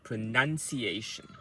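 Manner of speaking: pronunciation with NUN stressed; example pronunciation. Shown as a demonstration. Coach giving learners an example word, stress on nun. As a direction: say pronunciation carefully, leaning on the nun. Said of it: "let me give you one example".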